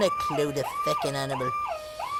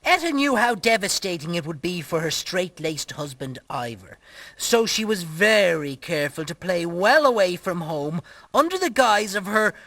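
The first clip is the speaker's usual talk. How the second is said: measured, lower storyteller's read; story narration; 4 semitones lower than usual. Acted. Reading a tale of a married couple, story narration. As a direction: narrate with mock gravity, falling at the ends.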